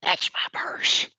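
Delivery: whispered slowly; a whispered quote, slow and low-key. Shown as a demonstration. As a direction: breathe the catchphrase out in a slow whisper. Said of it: "without the".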